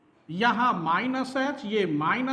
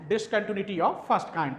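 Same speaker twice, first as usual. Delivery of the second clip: slow dictation; 3 semitones lower, much slower than usual. Shown as a demonstration. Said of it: "क्या कहलाती है?".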